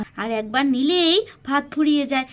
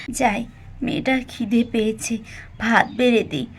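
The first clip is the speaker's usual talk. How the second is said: pitying thoughts, said softer; softer murmur to herself; 5 dB quieter than usual. Acted. Mala to herself, pitying her hungry daughter, softer. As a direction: murmur it under your breath.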